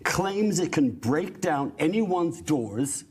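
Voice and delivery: impassioned, emphatic declaration; passionate. Real, not acted. Panelist denouncing jail without due process, passionate. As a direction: press each point with conviction. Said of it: "he's a little passionate about that".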